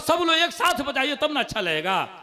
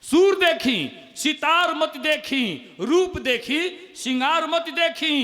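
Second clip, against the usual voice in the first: slow recital; 3 semitones higher, slower than usual. Acted. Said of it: "एक मुक्तक और सुनी".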